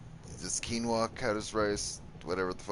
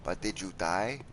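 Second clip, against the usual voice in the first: teasing question. Acted. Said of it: "teasing rhetorical".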